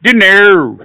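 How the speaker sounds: Scottish attempt sliding into film-comedy voice; botched Scottish accent. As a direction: have a rough go at Scottish. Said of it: "sounded like more like Mini Me".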